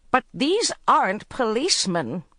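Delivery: urgent alarm; alarmed cry. A narrator's reading. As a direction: plead with the concierge in alarm. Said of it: "she cried".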